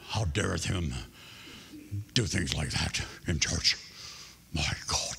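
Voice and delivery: a hint of a shocked old church lady; scandalized grandmother. Preacher mimicking a scandalized grandmother in church. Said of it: "the grandmother was just".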